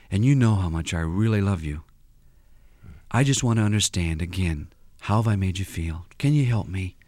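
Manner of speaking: low, gentle plea to the wife; tender husband. Acted. Counselor playing husband to wife, lightly tender. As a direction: soften and reach for her. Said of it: "let me play like I'm you".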